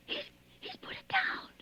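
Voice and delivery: high, soft, weeping whisper; sobbing whisper. Acted. Terrified woman hearing the killer hang up. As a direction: gasp it through tears.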